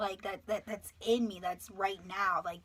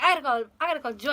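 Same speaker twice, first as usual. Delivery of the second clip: fast, high, loud repetition; frantic; 4 semitones higher, 6 dB louder, much faster than usual. Retold or imitated. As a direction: rush it out in retold panic. Frantic need to call a friend.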